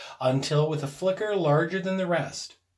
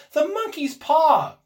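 loud, high, drawn-out cry; wild cry; 13 semitones higher, 7 dB louder, slower than usual. A narrator's reading. Wife suddenly remembers the paw, crying out wildly. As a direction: wail it out wildly. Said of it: "she cried wildly".

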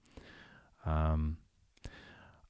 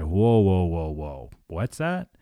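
mock alarmed interruption; 6 dB louder, slower than usual. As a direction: playfully halt the child mid-complaint. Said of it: "I'll say".

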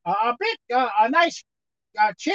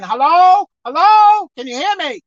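calling out; 3 semitones higher, 5 dB louder than usual. Retold or imitated. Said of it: "And God said".

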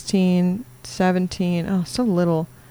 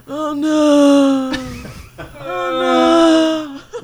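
loud laughing oh no; howling with laughter; laughing cry; 7 semitones higher, 4 dB louder, much slower than usual. Real, not acted. Group hysterics.

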